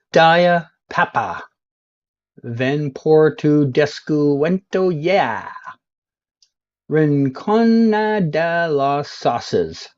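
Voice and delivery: slowly over-pronounced Spanish sign reading; mock Spanish. Streamer showing off his Spanish to viewers, slow mock Spanish. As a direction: read each Spanish sign like a confident local. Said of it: "I didn't know you could speak Spanish".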